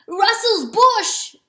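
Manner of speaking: slow, high, loud roar; first roar. Acted. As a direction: bellow the name, drawn out slowly. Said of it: "Oh, whoops".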